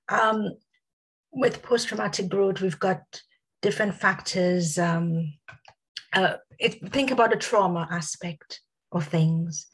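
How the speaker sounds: hoarse voice. Real, not acted. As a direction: voice going, a bit hoarse. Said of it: "I think I'm losing my voice a bit".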